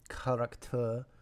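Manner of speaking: French 'character' with open ah vowels, evenly stepped; evenly spoken French 'character'; French pronunciation. Shown as a demonstration. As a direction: say 'character' as ka-rak-tu. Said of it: "French is kind of breaking it down".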